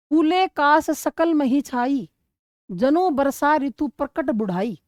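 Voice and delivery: slow, measured reading of a Hindi chaupai; slow classroom verse reading; verse recitation. Acted. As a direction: recite each word deliberately, like poetry in class. Teacher rereads the verse.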